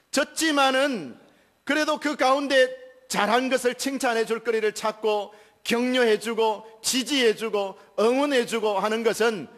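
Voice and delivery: high, loud pulpit preaching; fervent preaching. Acted. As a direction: preach it with rising fervour. Preaching at full force.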